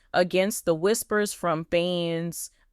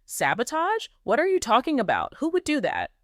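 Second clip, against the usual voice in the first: bewildered; 6 semitones higher than usual. Acted. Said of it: "Matt looked utterly bewildered".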